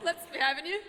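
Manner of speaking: light attempt at an Irish lilt; Irish accent. Shown as a demonstration. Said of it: "do the Irish accent".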